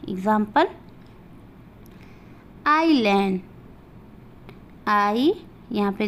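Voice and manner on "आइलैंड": आइलैंड said ailand, s not sounded; आइलैंड with silent s. Shown as a demonstration. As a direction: say आइलैंड without the s. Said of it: "वहाँ पे एस का उच्चारण नहीं किया जाएगा".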